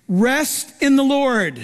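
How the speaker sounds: slow, settled reassurance; slow it down and soothe them; calm slow pastoral voice. Real, not acted. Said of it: "preaching a calm command".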